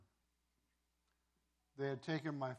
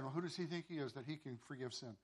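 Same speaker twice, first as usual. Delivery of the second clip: softer, as if murmuring among themselves; imitated murmuring; 6 dB quieter than usual. Religious leaders doubting Jesus among themselves, mildly murmured. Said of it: "the religious leaders are murmuring".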